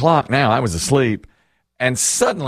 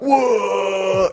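put-on startled teens; 8 semitones higher than usual. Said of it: "all the teens are like".

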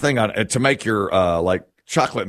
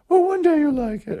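high mock mother voice, much higher; imitating mother. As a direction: put on a sweet high coaxing mom voice. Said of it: "And she said".

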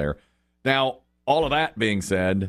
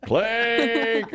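confirming; 11 semitones higher than usual. Retold or imitated. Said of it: "And he goes".

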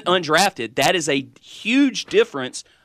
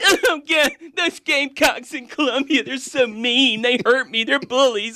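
higher, whining mock-sad voice; whiny crying fan; 7 semitones higher than usual. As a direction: whine it like a sore loser fan. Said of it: "read it in a crying, whining voice".

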